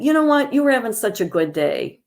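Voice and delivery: high, pointed "you know what", then a quick, guilt-tripping reproach; exasperated reproach. Shown as a demonstration. Trainer demos a bad remark to an upset vet, exasperated. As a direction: snap it like a frustrated caregiver. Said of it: "Instead of saying".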